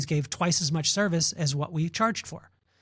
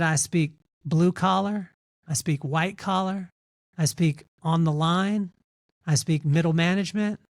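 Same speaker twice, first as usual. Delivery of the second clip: calm and steady. Retold or imitated. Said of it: "my pops very calmly".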